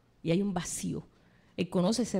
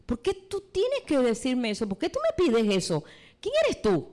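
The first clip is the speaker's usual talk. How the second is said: indignant exclamation; 2 semitones higher than usual. Acted. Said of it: "samaritana exclamó".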